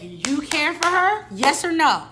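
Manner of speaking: loud, high-pitched retold confrontation; getting mad. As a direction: press for an answer with rising anger. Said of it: "Then I start getting mad".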